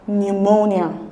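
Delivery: pneumonia slowly, starting on N with a silent P; pronunciation demo. Shown as a demonstration. Teacher showing the silent first letter, careful pronunciation of pneumonia. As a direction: say pneumonia carefully as "nyoo-MOH-nia". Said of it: "it's pronounced".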